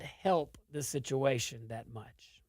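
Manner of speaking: a soft unvoiced whisper. Real, not acted. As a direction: whisper it like an aside. Whispered aside.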